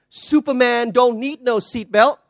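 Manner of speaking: loud, slow, swaggering boast; cocky boast. Retold or imitated. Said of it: "he replies and he says to her".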